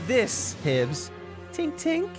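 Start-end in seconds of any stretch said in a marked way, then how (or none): 1.5-2.1 higher mouthed tink sound; tiny metal tink. Acted. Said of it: "I have to make it with my mouth".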